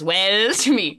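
drawn-out mock greeting; teasing mimicry of someone's catchphrase; mimicking manager. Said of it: "the main manager goes".

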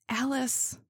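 understated narrated moan. A narrator's reading. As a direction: moan the name weakly, as read in a story. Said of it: "I moaned".

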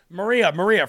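loud mock cutting-in on a repeated name; imitated interruption. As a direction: butt in, mimicking a politician talking over the host. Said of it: "he cuts her off".

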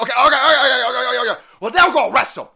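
high, loud mocking whine of nervous officials; high sarcastic mock voice of dithering officials. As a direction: mimic them high and loud, fretting. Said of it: "And so they're like".

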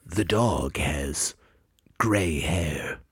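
low, slow, formal pronouncer voice; spelling bee announcer. Pretend. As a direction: announce the word like an official. Pronouncer gives example sentence.

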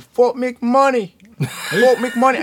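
slow, high, bad Jamaican accent; a weak try at a Jamaican accent. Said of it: "I can't do a Jamaican accent".

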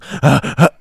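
huffed breaths that stop dead; abruptly halted mock panting; imitated panting cut short. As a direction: mimic panting, then cut to silence. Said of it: "just like that, just pure silence".

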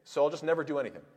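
hammed-up voice of a timid quitter; mock fearful excuse-maker. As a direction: play the scared person talking themselves out of trying. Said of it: "take this to the extreme".

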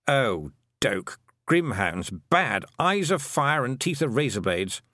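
a dry toad reciting facts; matter-of-fact little toad; lightly voiced toad. The toad tells Tiffany about the grimhounds, dry toad voice.

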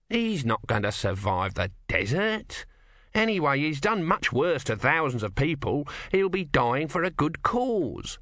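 lightly voiced persuader, slow at first; persuasive small god. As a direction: justify it, pitch rising toward the end.

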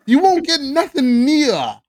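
put-on dramatic reading in a Canadian accent, breaking into laughs; mock Canadian accent. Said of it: "With a Canadian accent".

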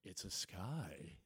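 low, slow, bored shrug; answering mom's excitement with boredom; deadpan unimpressed. Retold or imitated. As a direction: flatten it, totally unimpressed. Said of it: "And I'm like".

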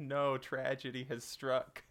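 slow, drawn-out dramatic proclamation; mock-tragic lament. Co-host voicing everybody's solidarity, mock-tragic. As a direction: proclaim it slowly as playful tragedy. Listener voices mock-solemn shared grief.

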